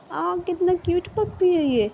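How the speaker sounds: put-on high, cooing little girl over a puppy. A narrator's reading. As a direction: coo it like a delighted five-year-old. Child coos at a puppy. (पप्पी देखकर ऊँची आवाज़ में चहकती बच्ची)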